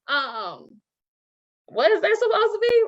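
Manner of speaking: put-on high, dismissive sneer at a child's drawing; teacher mocking a child's work with a scornful, high sneer.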